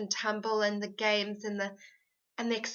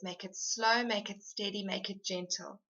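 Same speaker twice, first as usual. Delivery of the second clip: softening into a gentle tone; gentle, steady; 3 dB quieter than usual. Shown as a demonstration. Coach urging fathers to soften their tone, gently. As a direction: ease down softly, phrase by phrase. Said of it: "bring in that gentleness and use your tone of voice".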